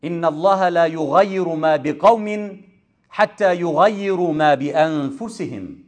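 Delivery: rapid recited Arabic verse; tilāwa سريعة; Quran recitation. Acted. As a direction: rattle off the verse as a quick recitation. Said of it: "our holy book said".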